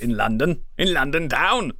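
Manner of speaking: lightly put-on London accent; a hint of a London drawl on town. Shown as a demonstration. Showing friends how he talks in London, light London accent. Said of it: "I talk like this".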